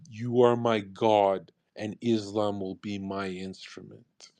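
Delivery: a light parody of a devout whisper; mock prayer. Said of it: "laying down saying".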